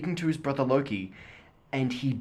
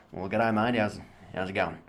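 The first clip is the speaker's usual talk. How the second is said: put-on Queensland accent; 4 semitones lower than usual. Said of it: "very deep and nasally".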